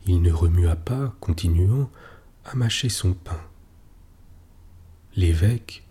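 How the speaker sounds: plain reading voice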